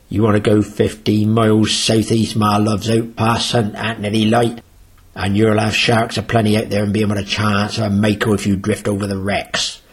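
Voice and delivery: light Cornish accent, imitating an old local skipper; a modest go at a Cornish fisherman's accent, easygoing; Frank's Cornish accent. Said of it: "That's as close an accent as I can get to Frank".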